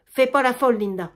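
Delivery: plus fort, presque crié; gronde-la d'un coup; réprimande forte. Acted. Germaine gronde Linda. (la mère gronde sa fille, voix forte)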